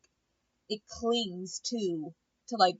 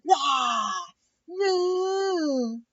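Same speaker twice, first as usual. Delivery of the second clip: high, loud, screechy mock yelling; imitating Christina's ugly yelling; 10 semitones higher, 6 dB louder, much slower than usual. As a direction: parody a bad yeller at full blast. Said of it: "You don't look cute when you yell".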